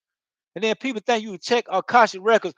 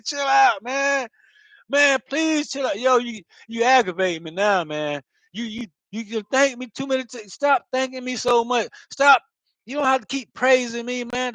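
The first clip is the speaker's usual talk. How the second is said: higher, exasperated chill out; annoyed pushback; 3 semitones higher than usual. Retold or imitated. Sister fed up with his endless thanks, exasperated. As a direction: tell him to stop, fed up. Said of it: "She gonna be like".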